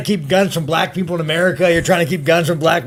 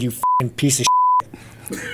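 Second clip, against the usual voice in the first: mock insult voice; 4 dB quieter, much slower than usual. Retold insult, odd high voice.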